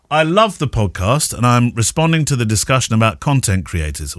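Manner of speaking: listener's message read out; reading aloud. Acted. Podcast host to co-host, reading out a listener's message. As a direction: read the message out clearly to the audience.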